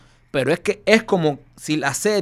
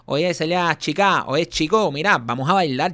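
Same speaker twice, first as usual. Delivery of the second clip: put-on forced Cuban accent; 3 semitones higher than usual. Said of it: "si cada dos minutos te dice".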